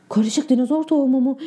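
"Karışık dinozor tohumu mu?" asked in disbelief, stress on "tohumu"; surprised question. Acted. Boy realising he planted dinosaur seeds, stunned disbelief. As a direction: repeat it back in shock, leaning on "tohumu". Realises what the label means.

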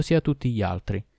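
usual speaking voice

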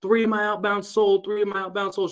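put-on high, excited voice, like a thrilled young saleswoman; imitating her pumped-up bragging; excited employee. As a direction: bounce it up high with glee. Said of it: "and she was like".

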